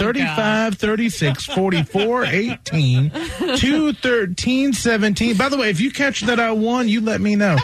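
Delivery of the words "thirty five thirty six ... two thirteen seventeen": rapid list like an auctioneer; rattling off numbers. Acted. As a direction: fire the numbers off quickly. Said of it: "You sounded like an auctioneer".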